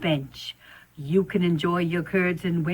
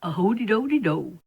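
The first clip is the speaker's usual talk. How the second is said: sing-song spider. Acted. Spider sings.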